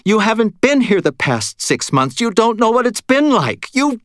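high, heated outburst cut off short; sudden anger. A narrator's reading. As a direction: flare up angrily, pitch leaping high. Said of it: "Her eyes flashed with sudden anger".

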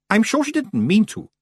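high-pitched, pleading defence; high, well-meaning witch voice; protesting Miss Tick. Acted. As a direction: speak up high for the girl.

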